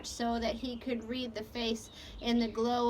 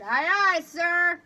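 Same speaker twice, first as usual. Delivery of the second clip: purring; 6 semitones higher, 9 dB louder, slower than usual. Acted. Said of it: "Lupe purred".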